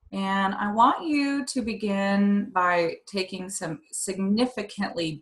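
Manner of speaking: slow, measured breathing-exercise guidance; guided meditation. Real, not acted.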